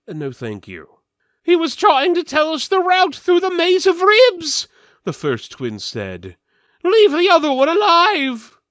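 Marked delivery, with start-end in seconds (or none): 1.4-4.7 high, loud, strained protest; voiced twin, indignant and pitched up; shrill twin voice. 6.8-8.6 high, loud pleading shout; urgent plea. Acted. Twin urging to spare goblin.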